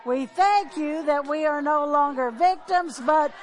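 loud, rising preacher's blessing; a closing blessing declared loudly to the congregation; fervent prayer. Acted. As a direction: pray it out with full force over the room.

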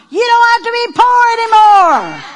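high, loud preacher's shout; triumphant proclamation. Acted. Pastor voices Jesus telling the poor, triumphant shout. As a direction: shout it out as liberating news.

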